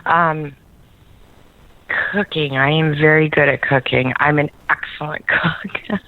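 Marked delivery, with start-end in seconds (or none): 4.2-6.0 softly laughing brag, half whispered; a shy whispered brag with a laugh in it. Real, not acted. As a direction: giggle through a sheepish boast. Bragging about cooking, laughing.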